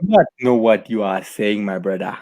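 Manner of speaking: stiff, uncontracted foreign-accented English; put-on foreign accent. Playing confused with co-host, mock foreign accent. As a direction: put on a foreign accent, every word separate.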